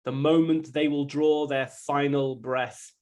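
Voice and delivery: steady, measured poem recital; poem reading. Acted. Son reading Three Sisters to the audience, measured and even.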